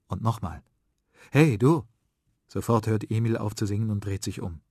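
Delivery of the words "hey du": loud call from behind. Acted. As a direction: call out to get his attention. Boys calling to Emil.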